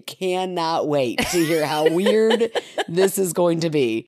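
drawn-out mock anticipation, laugh creeping in; slow, amused imitation of excitement; so excited. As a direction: imitate an eager kid, savoring each word. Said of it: "he's so excited".

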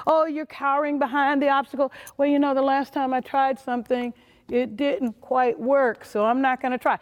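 mock-timid voice of someone hiding from risk; timid excuse-maker. Speaker mocks an employee cowering behind obstacles, timid mock voice. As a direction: play the scared excuse-maker, hammed up a little. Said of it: "Don't allow the obstacle to kinda".

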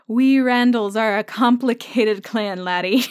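retold bad Scottish accent, lightly put on; playfully poor Scottish accent; bad mock accent. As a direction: imitate her poor attempt at a Scottish accent. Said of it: "That is the worst accent I have ever heard".

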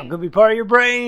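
high, squeaky little being voice; tiny high character voice. Acted. Player voicing Tom character.

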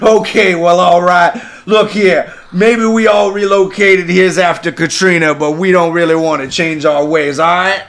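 put-on a bayou judge scolding a Yankee, thick accent; thick Cajun accent. Judge scolding the defendant, thick Cajun accent. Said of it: "hard accents".

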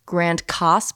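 Case in Grand Case said as "Coss"; local pronunciation. Shown as a demonstration. Wife explaining the town's name, Grand Case said "Grand Coss". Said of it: "but it's spelled like case".

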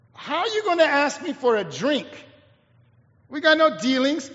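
acted sassy comeback; a little sassy. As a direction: talk back with a touch of sass. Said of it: "she gets a little sassy".

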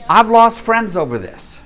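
amused, laughing rueful confession. Real, not acted. Laughing over a rueful admission.

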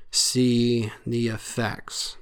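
slow, whispered aside; hushed, slow ominous whisper. Real, not acted. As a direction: drop to a whisper on the warning.

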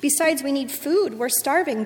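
ordinary delivery

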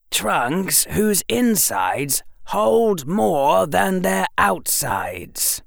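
put-on slow, careful boyish pitch; slow hopeful boy. A narrator's reading. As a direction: lay it out slowly and hopefully. Harry voiced by narrator.

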